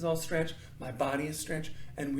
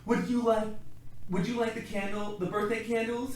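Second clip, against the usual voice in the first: dragon mother voice; 6 semitones higher, 4 dB louder than usual. Acted. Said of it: "his mother asked".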